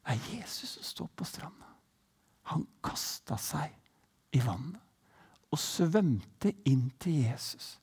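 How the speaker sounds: whispered storytelling; hushed narration. A narrator's reading. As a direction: draw listeners in with a whisper. Storyteller hushes at key moment. (predikanten forteller hviskende)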